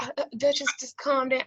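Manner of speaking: imitating a timid, halting helper; nervous assistant. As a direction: falter gently as you try to calm someone.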